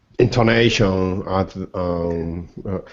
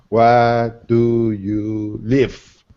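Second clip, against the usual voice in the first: very slow, each word drawn out; stress on first and last word; much slower than usual. Shown as a demonstration. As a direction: stretch every word of Where do you live slowly. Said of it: "I stress the first syllable and the last syllable".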